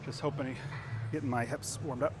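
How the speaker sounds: talking while squatting low; strained, squatting in the hole; in a deep squat. Real, not acted. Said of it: "sit in a deep squat".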